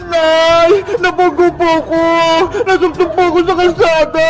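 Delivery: whining tearful complaint; crying. Acted. Child tells her mother about the accident, crying. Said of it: "Bakit ka umiiyak?".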